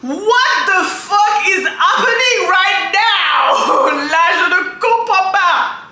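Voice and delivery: high, slow, loud disbelief; shocked shout. Real, not acted. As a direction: yell it in total shock. Shocked reaction to video.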